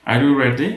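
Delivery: loud yes-no question, "ready" going up; rising intonation. Shown as a demonstration. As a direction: lift the pitch through "ready". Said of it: "ভয়েসটা উপরে যাবে".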